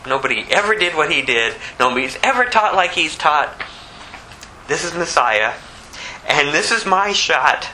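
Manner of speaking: usual speaking voice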